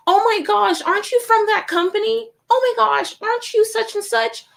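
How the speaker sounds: high, loud gushing imitation; excited recognition. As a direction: squeal it like a starstruck passer-by. Imitating people who recognize her company.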